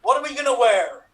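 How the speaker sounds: light West Country accent, hammed up; mock Somerset farmer accent. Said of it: "continue with a West Country accent".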